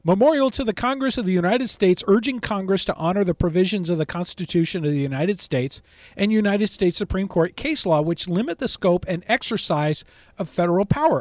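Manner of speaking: announcer read of the bill title; radio voice. Shown as a demonstration. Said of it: "I'm gonna try to do it fast in my radio voice".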